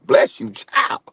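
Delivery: breathy whispered bless you. Acted. Man to friend, blessing whispered as mock warning. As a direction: drop it to a whisper, half joking.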